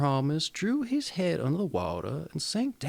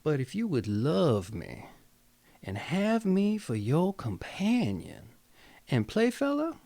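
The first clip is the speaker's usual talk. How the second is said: put-on Southern accent. Storyteller reading the Grimm tale to viewers, light Southern accent. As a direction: tell the frog story with a hint of a Southern accent. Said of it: "gonna chew my southern voice there".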